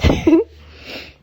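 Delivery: short, high, loud laugh; breathless laugh. Real, not acted. Laughs at her own breathlessness.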